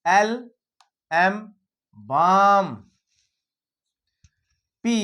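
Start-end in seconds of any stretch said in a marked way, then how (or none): 2.0-2.7 बाम said loudly as baam, long aa; clear word demo. Shown as a demonstration. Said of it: "एक आवाज बता रहा हूं".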